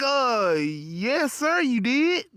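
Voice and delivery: lightly voiced, hesitant "sir, you did"; hesitant polite cashier. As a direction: hold back, stay polite. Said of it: "She was like".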